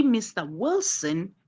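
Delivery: "Mister Wilson" rising on "Wilson"; rising intonation. Shown as a demonstration. Teacher shows how to address someone, rising intonation. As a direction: lift the pitch through "Wilson". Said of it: "your intonation is rising".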